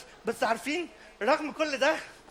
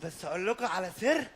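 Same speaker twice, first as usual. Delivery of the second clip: confiding aside; 4 semitones lower, 5 dB quieter than usual. Acted.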